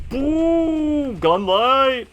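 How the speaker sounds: high, loud burst of glee; excited shout. Real, not acted. New gun light in game.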